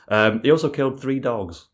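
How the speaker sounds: offhand, throwaway delivery; bad acting. Real, not acted. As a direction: toss it off like a footnote. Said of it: "you can't deliver it like that".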